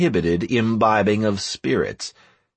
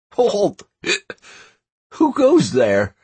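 guard's challenge; 12 semitones higher, 5 dB louder, slower than usual. A narrator's reading.

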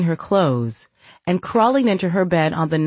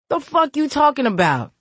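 incredulous snap; 10 semitones higher than usual. Acted. Shadow snaps at sister.

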